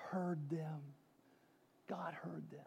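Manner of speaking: very soft, low whisper; whispered reassurance; hushed whisper. Real, not acted. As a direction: let it sink almost to nothing, solemnly. Refrain dropped to a whisper.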